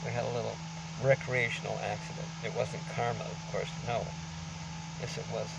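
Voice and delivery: muffled behind a mask; through a face mask. Real, not acted. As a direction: speak through a covering mask. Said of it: "excuse the mask we're covering".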